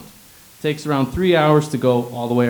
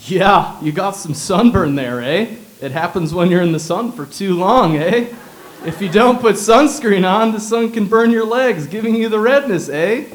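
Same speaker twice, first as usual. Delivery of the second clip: laid-back Hawaiian doctor; 7 semitones higher, 7 dB louder than usual. Retold or imitated. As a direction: play a slack local doctor stating the obvious. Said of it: "his expert input was".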